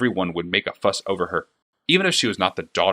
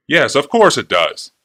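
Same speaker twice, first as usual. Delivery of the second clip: higher, louder gushing shopkeeper; fawning clockmaker; 4 semitones higher, 8 dB louder, slower than usual. A narrator's reading. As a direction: gush over the princess like an eager flatterer. Clockmaker covering ignorance.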